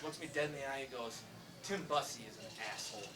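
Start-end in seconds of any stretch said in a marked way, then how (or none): 1.6-3.1 a low, dry hint of a grumpy old neighbour; lightly voiced old man glaring at the door; crotchety old man. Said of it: "me and the crotchety old man".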